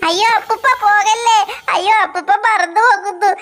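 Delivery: a whimpering cry of അയ്യോ അപ്പൂപ്പ with a sob on പോകല്ലേ; crying plea. Acted. The boy begging the departing Santa to stay, crying. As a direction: beg him not to leave, near tears.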